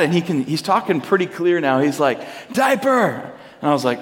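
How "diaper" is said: put-on high, drawn-out toddler announcement; toddler son. Toddler announcing a problem to dad, imitated high-pitched call. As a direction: imitate a two-year-old calling out one word. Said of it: "my son's two".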